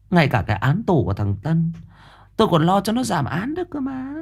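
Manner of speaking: a fretful rich woman begging the master; mother's voice. Acted.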